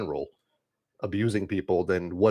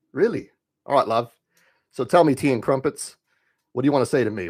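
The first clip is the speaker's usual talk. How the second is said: lightly hammed-up British accent, teasing; mock British accent, a touch higher, teasing; 4 semitones higher, 4 dB louder than usual. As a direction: put on a cheeky British accent to mock the chatter. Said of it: "I am very good with the accent".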